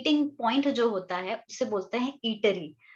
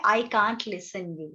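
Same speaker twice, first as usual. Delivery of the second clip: slow model phrase; 2 semitones lower, much slower than usual. Shown as a demonstration. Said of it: "बोलते हैं".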